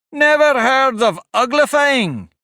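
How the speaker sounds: high, loud, slow astonished cry; exclaimed. A narrator's reading. Griffin to Alice, astonished and exclaiming. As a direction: exclaim in disbelief. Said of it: "it exclaimed".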